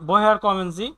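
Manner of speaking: very slow, every word of woher kommen Sie? spelled out; teacher models the German phrase slowly; slow model reading. Shown as a demonstration. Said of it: "আপনি কোথা থেকে এসেছেন?".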